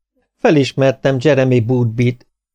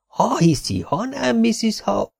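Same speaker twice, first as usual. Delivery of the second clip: lightly voiced, slightly higher chatty tailor; 12 semitones higher, 4 dB quieter, slower than usual. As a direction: rattle on like a talkative tailor. Tailor chatting away to customer.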